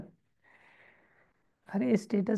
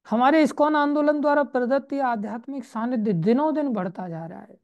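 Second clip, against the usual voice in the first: raised, projected reading voice that settles at the close; reading aloud; 3 semitones higher, 5 dB louder than usual. Acted. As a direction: read out the book emphatically. Reads the book text aloud.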